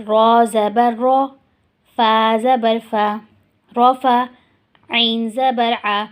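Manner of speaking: slow, deliberate letter-by-letter recitation; slow spelling drill. Shown as a demonstration. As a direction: drill each syllable slowly for the class. (آہستہ ہجے کی مشق)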